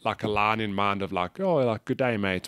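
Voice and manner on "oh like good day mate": Australian accent. Shown as a demonstration. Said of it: "do an Australian accent".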